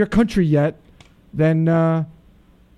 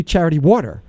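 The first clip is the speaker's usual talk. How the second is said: WATER given the emphasis over charity; stress on water. Shown as a demonstration. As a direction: lean on the word water. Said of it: "emphasis on the water".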